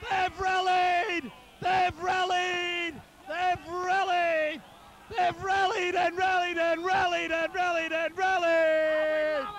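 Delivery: slow, drawn-out triumphant shout; slow building triumphant commentary; excited rallying call. Real, not acted. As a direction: savour each word of the comeback. Commentator celebrating the comeback.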